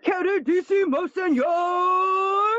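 loud gushing greeting. Acted. Courtiers greeting Hamlet theatrically.

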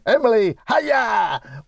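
high mimicked parrot greeting; mock parrot announcement; imitated parrot squawk. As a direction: copy the squawk, pitched well up.

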